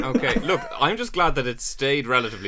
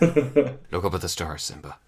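lightly voiced Mufasa; 4 semitones lower than usual. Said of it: "Just sound like myself".

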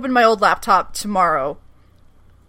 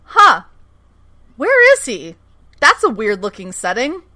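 puzzled surprise. Retold or imitated. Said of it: "And we were like".

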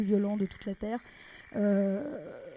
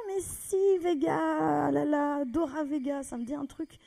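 higher eager voice; enthusiastic; 5 semitones higher, slower than usual. Retold or imitated. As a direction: sound suddenly excited. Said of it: "ce mec est très enthousiaste". (enthousiaste, plus aigu)

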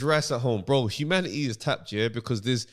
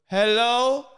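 put-on old woman Hello; 8 semitones higher, 4 dB louder than usual. Repeating old woman call.

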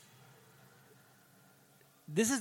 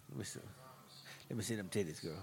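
mock southern drawl; 4 semitones lower, 14 dB quieter, faster than usual. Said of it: "His fucking accent, dude".

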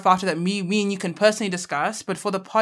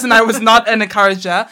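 hammed-up Boston tough guy; Boston accent; 3 semitones higher, 11 dB louder than usual. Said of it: "I was trying to do a Boston accent".

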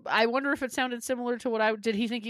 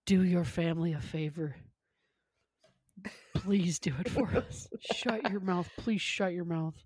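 low, soft scolding whisper; hushed scolding; 4 semitones lower, 4 dB quieter, slower than usual. Retold or imitated. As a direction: hiss it like a mother in public. Mother scolding in public.

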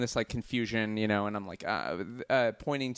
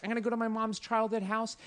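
higher, hopeful inner voice; dreamy resolve; 9 semitones higher than usual. Retold or imitated. Planning a sentimental trip to his mother's house, dreamy. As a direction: say it like a grand plan. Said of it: "I was like".

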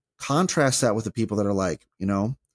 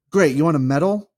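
sarcastic; 6 semitones higher, 6 dB louder than usual. Real, not acted. Mocking a self-righteous mourner.

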